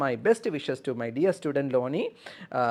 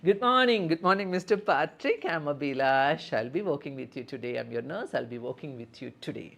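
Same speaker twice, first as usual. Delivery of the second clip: nurse role-play greeting. Shown as a demonstration. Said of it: "we are going to deal with the patient".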